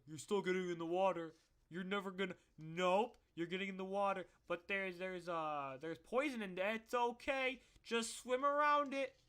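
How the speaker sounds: a coach who won't take no, booming; bossy coach. Retold or imitated. Coach ordering swimmers into dirty pool, loud and dismissive.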